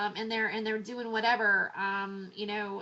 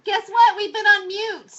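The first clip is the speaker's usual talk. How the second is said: loud excited announcement; 8 semitones higher, 14 dB louder than usual. Real, not acted. Announcing the mute mistake.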